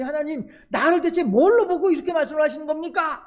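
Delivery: a hurt man objecting to God; mildly outraged grumble; complaining. Acted. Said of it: "불평불만을 할 법도 해요".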